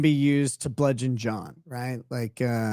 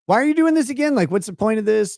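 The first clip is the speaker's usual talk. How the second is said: much higher, puzzled mock question; mock puzzled asking; 6 semitones higher, faster than usual. Imitating the guy asking Karen why, high and puzzled. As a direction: ask it baffled, pitched way up. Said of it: "he's asking over and over".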